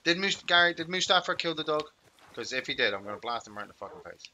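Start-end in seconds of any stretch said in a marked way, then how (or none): 0.0-1.8 indignant. Real, not acted. Dog found dead.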